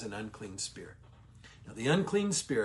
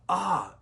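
a sharp, higher demon's ah, louder; exclamation ah; 5 semitones higher, 4 dB louder than usual. Shown as a demonstration. Teacher voicing the demon's sharp cry, louder. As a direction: blurt out the cry. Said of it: "A H exclamation point".

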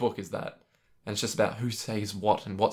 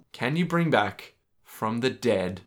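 pleading wish; 4 semitones lower, much slower than usual. Pretend.

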